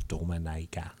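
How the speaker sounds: whispered name, no voice. Retold or imitated. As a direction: say the name on breath only. Repeating her name softly.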